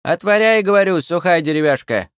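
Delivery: high, loud witch shout; a furious old witch yelling; shouting crone. A narrator's reading. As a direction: yell at the wooden spirit like an old hag. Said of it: "прикрикнула".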